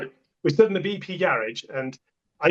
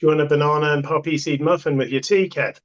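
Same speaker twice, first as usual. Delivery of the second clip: calm deadpan. Retold or imitated. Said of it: "I just very calmly".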